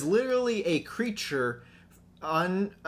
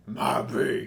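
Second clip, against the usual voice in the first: drawled Southern maybe, breathy; lightly imitated Southern drawl on maybe; 4 semitones lower than usual. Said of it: "his southern drawl".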